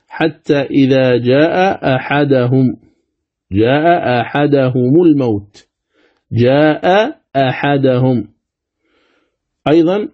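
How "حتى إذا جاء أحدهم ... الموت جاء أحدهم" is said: "جاء أحدهم" recited slowly with both hamzas; slow recitation. Shown as a demonstration. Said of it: "مثال ذلك".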